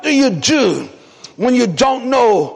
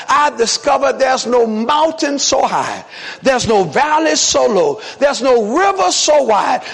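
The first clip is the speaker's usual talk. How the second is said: slow preaching cadence; slower than usual. Acted. Pastor repeating his point to church, slower.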